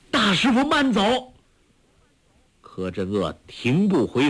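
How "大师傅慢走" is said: high pleading call. A narrator's reading. Guo Jing chasing his departing master, calling out. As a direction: cry out after him. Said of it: "叫道".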